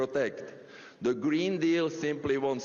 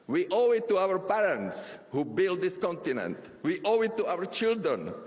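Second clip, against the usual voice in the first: rally speech; 2 semitones higher than usual. Real, not acted. Building rally speech climax.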